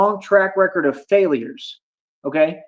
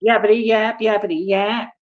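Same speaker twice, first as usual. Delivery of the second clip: a singsong taunt aimed at the critics; mocking yap; 3 semitones higher than usual. Streamer mocking chat critics with a singsong taunt. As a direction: sneer it like childish teasing. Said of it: "yapping to yap".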